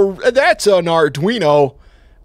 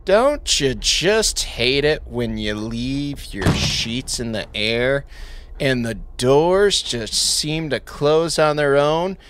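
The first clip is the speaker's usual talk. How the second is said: infomercial announcer; 2 semitones lower than usual. Pretend. Infomercial parody.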